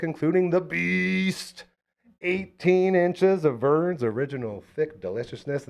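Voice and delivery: slow, savoring sponsor read. Acted. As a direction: stretch out the product name. Pizza ad read.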